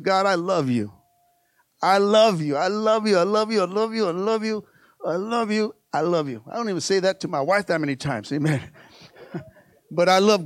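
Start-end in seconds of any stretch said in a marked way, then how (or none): 0.0-6.4 tender devotion. Pretend. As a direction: let each "I love you" fade gently. Repeated tender devotion, fading.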